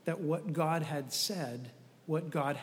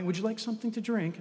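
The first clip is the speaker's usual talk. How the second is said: quick, higher British flight attendant; British accent; 4 semitones higher, faster than usual. Acted. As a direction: offer drinks in a put-on British accent. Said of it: "always in a British accent".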